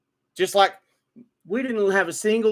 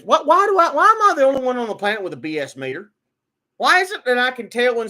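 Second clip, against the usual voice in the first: fast, louder and higher exasperated rant; exasperated outburst; 3 semitones higher, 5 dB louder, faster than usual. Real, not acted. Ranting about spotting lies, raised and fast. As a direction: fire off the question in disbelief.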